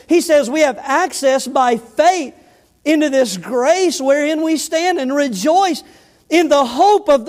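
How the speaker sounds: slow, weighted pulpit delivery; emphatic preaching. Real, not acted. Preacher expounding the believer's access to God, emphatic. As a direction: lean hard into each key word, drawing it out.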